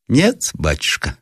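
high, slow answer; old woman. A narrator's reading. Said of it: "отвечала старуха". (неспешный ответ старухи)

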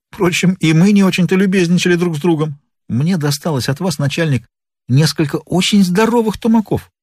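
good-natured complaint to the boss; a hint of a plucky sidekick; lightly voiced accomplice. Voices Bob, addressing his chief.

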